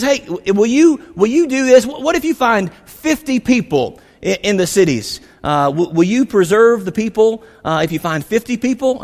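a hint of an anxious Abraham asking; mock pleading Abraham. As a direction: plead upward like Abraham begging. Preacher voices Abraham pleading with God.

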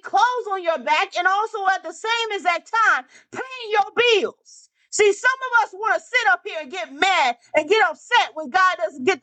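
impassioned preaching. Real, not acted. Preacher admonishing the congregation about government, impassioned. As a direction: press the point on the congregation.

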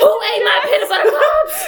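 high, laughing mock outrage; mock furious demand. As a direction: ham up a cranky accusation through laughter. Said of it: "I become the little anger guy from inside".

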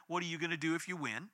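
soft, hushed, pondering echo of the question; quiet reflective repeat. Retold or imitated. Family repeating the protester's challenge in prayer, soft and thoughtful. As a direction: turn the taunt over quietly in your mind.

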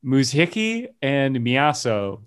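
Muzhiki and Miyaso sounded out slowly, as approximate foreign words; rough foreign pronunciation. Shown as a demonstration. Host giving original-language nicknames, rough careful pronunciation. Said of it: "this is my very rough approximation".

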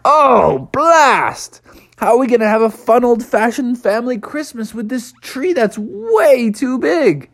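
a frog dad fuming at the huge tree; frustrated father frog. Acted. Father frog grumbling to family that tree is too big.

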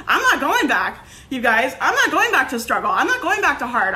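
high laugh, then words said through laughter. Real, not acted. Joking with listeners about never going back, laughing. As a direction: giggle out the defiant lines.

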